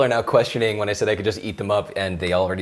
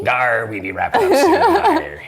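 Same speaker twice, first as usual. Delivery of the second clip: put-on louder laughing pirate accent; 3 semitones higher, 6 dB louder, slower than usual. Pirate accent announcing the end of the show. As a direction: ham it up as a pirate.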